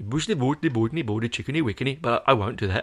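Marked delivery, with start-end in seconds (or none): 0.0-2.0 mock Swedish accent, babbling gibberish. Talking about a Swedish man, the speaker offers: mock Swedish Chef accent. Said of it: "I could do the Swedish chef".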